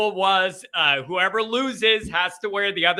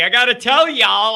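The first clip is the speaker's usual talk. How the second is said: louder mock Southern accent; Brian Kelly Southern accent; 3 semitones higher, 5 dB louder than usual. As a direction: play up the Southern y'all. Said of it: "I just had a little Brian Kelly in me".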